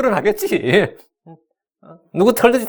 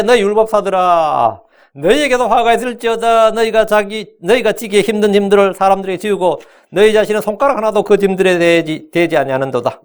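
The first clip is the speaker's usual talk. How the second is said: solemn scripture reading. Acted. Reads Jesus's rebuke.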